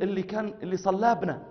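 incredulous Egyptian asking; hushed Egyptian disbelief; surprised Egyptian. Retold or imitated. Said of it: "أخ مصري".

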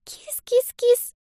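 put-on high, slow, drawn-out little girl calling a cat; thin child's call. A narrator's reading. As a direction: coax the cat in a tiny sing-song. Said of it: "тихое и тоненькое".

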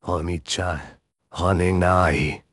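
lightly voiced cute anime girl; a hint of a sweet idol girl; cute anime streamer. Shown as a demonstration. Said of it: "an impression of Kotori from Love Live".

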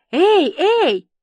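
loud, high double call; calling for attention. A narrator's reading. Papa waves before her face, calling sharply. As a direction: jolt her out of her daze.

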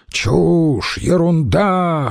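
high, slow indignant retort; mild mock roar. Antony hits back at the chairman, high slow indignant roar. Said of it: "взревел Антоний".

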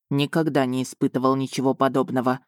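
ниже, с отстранённым любопытством; low, detached, curious researcher dragon; с видом исследователя. Acted. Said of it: "заявил он с видом исследователя". (дракон как исследователь, низко и спокойно)

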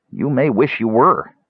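a touch of solemn warning; somber. Acted. Kender warning Caramon, understated somber tone. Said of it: "Tass said somberly".

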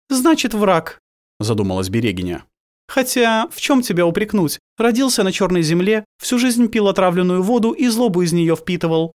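high, probing female ruler; stern priestess voice. A narrator's reading. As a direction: question him with calm authority. Geneva interrogates the werewolf.

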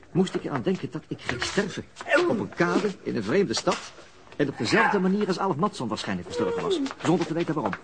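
rising agitation. Acted. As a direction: tell it as if the fear is climbing. Vertelt over vechten en sterven. (opgewonden, hoger en luider)

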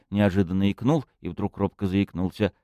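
ordinary delivery, nothing marked

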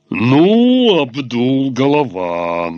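nasal, hoarse criminal drawl; nasal thug voice. A narrator's reading. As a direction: play a nasal street thug. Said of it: "сифилической гнусавостью".

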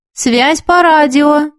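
slow, drawn-out radio announcement; cosmic voice. A narrator's reading. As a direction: announce it like a voice from space, stretching the words. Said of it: "напомнил космический голос".

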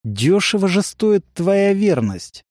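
slow, drawling contempt; drawn out. A narrator's reading. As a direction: drag the words out slowly. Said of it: "протянул Эфалир".

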